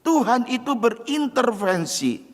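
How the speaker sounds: high, loud pulpit proclamation; full-force preaching. Acted. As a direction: preach it out to the whole hall. (khotbah berapi-api dengan suara tinggi dan keras)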